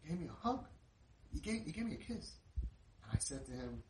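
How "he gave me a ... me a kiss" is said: high, overwhelmed disbelief; freaking out. Retold or imitated. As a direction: imitate an amazed boy, voice lifting on the news. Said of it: "He's freaking out".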